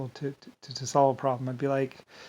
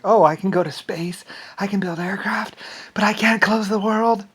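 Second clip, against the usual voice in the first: harsh whisper, higher pitched; self-berating whisper; 7 semitones higher, 7 dB louder than usual. Retold or imitated. Scolding himself for failing, in a tense whisper. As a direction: hiss the frustration at yourself. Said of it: "I would yell at myself".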